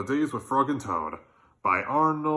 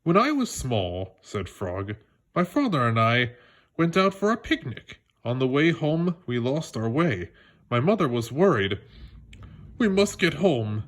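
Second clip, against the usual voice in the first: put-on lively read-aloud for children; animated children's book reading; story narration. A narrator's reading. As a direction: tell it like a bedtime story to kids.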